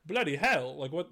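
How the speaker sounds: badly faked British accent, mild outburst; half-hearted mock-British exclamation. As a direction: put on a poor British accent. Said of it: "that was my worst accent ever".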